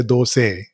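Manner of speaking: "dose" in two syllables, DOH-say; Karnataka pronunciation. Retold or imitated. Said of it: "if you go to Karnataka".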